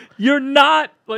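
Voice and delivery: high-pitched, very angry shout. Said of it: "Jesus gets so mad".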